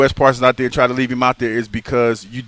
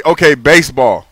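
firm, louder retold command; broken-down voice command; 6 dB louder than usual. Host retelling his simplified search to the TV, broken down. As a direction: spell it out for a dim remote. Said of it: "I just break it down".

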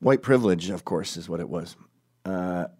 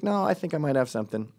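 higher, mildly hopeful protest; trying optimism; 6 semitones higher than usual. Retold or imitated. Detective defending his case to doubting colleagues, trying optimism. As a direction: imitate someone putting a hopeful face on it. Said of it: "trying to be optimistic".

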